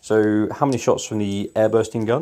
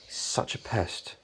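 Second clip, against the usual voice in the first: whisper; 12 dB quieter than usual. Acted. Gloating villain aside.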